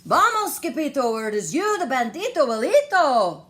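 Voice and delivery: loud, high, fast alarm; panicked crying out. Acted. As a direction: shout the warning in a panic. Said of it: "they cried".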